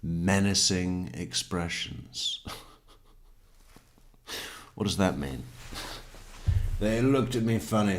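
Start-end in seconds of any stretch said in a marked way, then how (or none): 0.0-2.4 slow, ominous repeat; mock ominous. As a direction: drag it out for menace. Mocking repeat of testimony.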